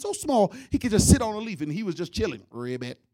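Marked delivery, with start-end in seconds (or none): 2.5-3.0 frog croak. Acted. Frog croak in comic story.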